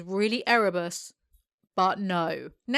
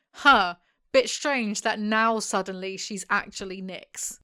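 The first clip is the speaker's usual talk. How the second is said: mock council member; slower than usual. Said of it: "Surely they'll be like".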